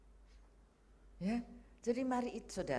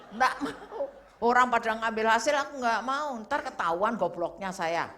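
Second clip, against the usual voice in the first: retold stubborn refusal; 2 semitones higher, 9 dB louder than usual. Retold refusal to collect results.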